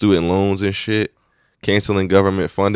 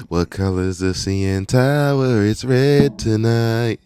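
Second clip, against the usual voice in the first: put-on Canadian accent; 3 semitones higher, slower than usual. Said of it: "On some Canadian shit".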